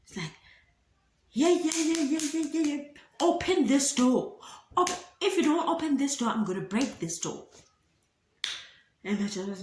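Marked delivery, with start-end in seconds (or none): 1.3-7.5 much higher, louder furious yelling; hammed-up mother demanding the door open; mock angry shout. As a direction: bang on the door with your voice. Mom shouting at locked door.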